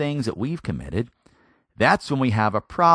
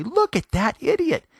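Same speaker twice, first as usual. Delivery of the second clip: higher, louder scoff at a bad driver; irritated driver; 13 semitones higher, 4 dB louder than usual. Driver in rush hour scoffing, higher and louder. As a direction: sneer at the other car. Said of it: "We say".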